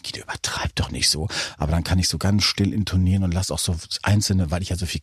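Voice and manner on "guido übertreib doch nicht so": low, hushed aside to oneself; quiet self-reproach. Retold or imitated. Host telling himself off in his head, hushed and low. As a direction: murmur it low, like a private thought.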